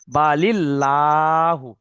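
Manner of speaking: বালিল্লাহু drawn out slowly, with a thin, light লা and the mouth kept normal; thin light lah. Shown as a demonstration. Teacher showing the light Allah after jer, slow thin বালিল্লাহু. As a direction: recite বালিল্লাহু slowly, keeping লা light and unrounded. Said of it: "কিরকম দেখেন".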